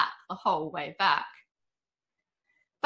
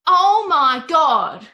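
much higher and louder, slow dramatic gasp; soap opera tone; 9 semitones higher, 11 dB louder, much slower than usual. A narrator's reading. Wilma reacts to the bird in the bag, soap opera drama. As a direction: ham it up like a soap star. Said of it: "in that soap opera tone".

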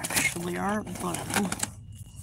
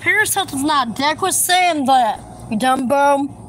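annoyed scolding; 4 semitones higher, 4 dB louder than usual. Real, not acted. Scolding someone, raised voice.

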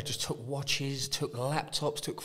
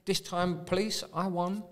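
defiant taunt; 5 semitones higher than usual. Retold or imitated. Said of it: "just to say".

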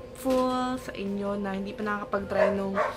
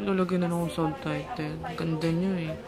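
stiff face, limited mouth movement; speaking with clay mask on; through a drying face mask; 3 semitones lower than usual. Real, not acted. Seen 0: Clay mask visibly drying on face while speaking; washed off later.

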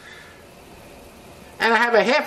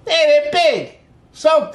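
excited emphasis; 5 semitones higher, 3 dB louder, slower than usual. Real, not acted. Stressing bean size to viewers.

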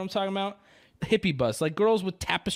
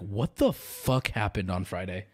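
imitating viewers; 9 semitones lower, slower than usual. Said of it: "and they're like".

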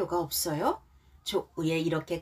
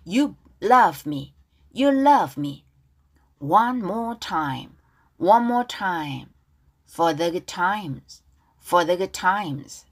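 slow, drawn-out model reading; much slower than usual. Shown as a demonstration. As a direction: lay it out gently for students to echo. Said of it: "가사 발음 따라볼게요". (크고 아주 느리게 늘여서)

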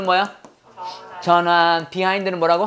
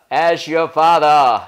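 slow model reading; 5 semitones lower, much slower than usual. Shown as a demonstration. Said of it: "뭐야?".

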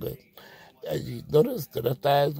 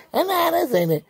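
joyful relief; 8 semitones higher than usual. Acted. Relief after the scare.

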